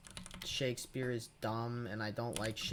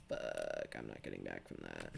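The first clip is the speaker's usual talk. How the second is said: very low, softer retold thought; defeated aside; 10 dB quieter than usual. Student roasted by a teacher, low defeated mock aside. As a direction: drop right down as if conceding defeat.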